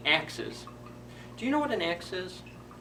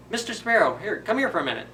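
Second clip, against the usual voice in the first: higher, louder call across to a friend; 5 semitones higher, 4 dB louder than usual. Acted. Fir tree calling the sparrow over to come closer. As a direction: call him over from a distance.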